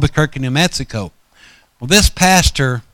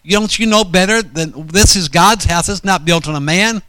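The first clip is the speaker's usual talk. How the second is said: raised, heated scolding, pitched higher; higher heated half-shout at the old pastor; retold angry rebuke; 5 semitones higher than usual. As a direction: scold him like you're reliving the anger. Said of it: "and I was so angry".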